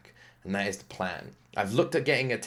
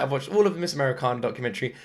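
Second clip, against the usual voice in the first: quoting wife. Retold or imitated. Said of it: "she's the exact word".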